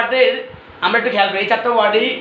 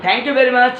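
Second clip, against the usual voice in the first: slow thanks; much slower than usual. Real, not acted. Sign-off to viewers.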